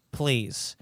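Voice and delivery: whispered, pleading "please"; mock whispered plea. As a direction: whisper it like a worried TV host begging. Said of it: "And they all said".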